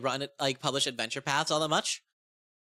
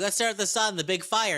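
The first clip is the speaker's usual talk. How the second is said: eager, pitched-up goblin suggestion; excited goblin; 4 semitones higher than usual. Retold or imitated. Goblin urging the others to stare at the sun, eager.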